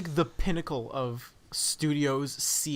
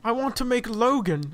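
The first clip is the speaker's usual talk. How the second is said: put-on louder old man voice; Patrick Stewart impression; 4 semitones higher, 5 dB louder than usual. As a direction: play a pleading old actor. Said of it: "I love that impression".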